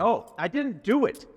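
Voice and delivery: high, fast, stammering plea; panicked pleading. Acted. Suspect pleading with the arresting officer, panicked. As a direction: beg to be let go as the cuffs close.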